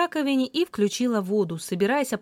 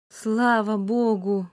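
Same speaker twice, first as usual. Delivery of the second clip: relieved sigh; much slower than usual. Acted. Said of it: "выдохнула я".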